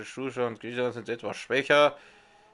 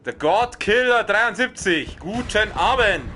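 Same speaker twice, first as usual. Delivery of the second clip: mock formal greeting; 7 semitones higher, 5 dB louder than usual. Greeting new viewer formally.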